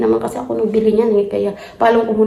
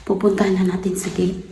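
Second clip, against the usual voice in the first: whispering; 3 semitones lower, 5 dB quieter than usual. Real, not acted. Going to gate, quiet.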